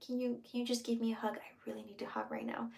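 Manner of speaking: asking for a hug in a whisper; whispered plea. Shown as a demonstration. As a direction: whisper a gentle request for a hug.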